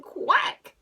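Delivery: high, loud storybook quack; duck quack. A narrator's reading. Reader voices the farm duck for children, loud quack. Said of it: "said the duck".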